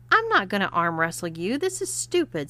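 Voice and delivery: sulking. Acted. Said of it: "crossing his arms and sulking".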